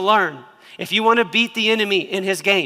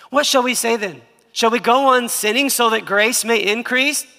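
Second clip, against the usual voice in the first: higher and louder, slowing hard on "By no means"; emphatic scripture reading; 6 semitones higher, 6 dB louder than usual. Acted. Preacher reading Paul's indignant question to the church. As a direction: proclaim it, landing the final denial.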